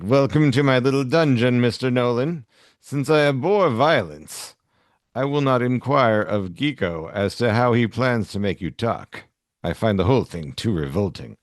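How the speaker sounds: a hint of a silky comic-book villain; reading a gentleman villain's lines with mild relish. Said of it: "I could do a so-called villain".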